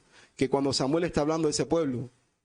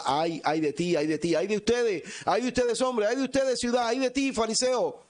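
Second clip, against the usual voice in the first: rising, impassioned denunciation; prophetic woe; 6 semitones higher than usual. Retold or imitated. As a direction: cry out the woes, climbing higher. Jesús denuncia a los fariseos. (lamento profético que sube de tono)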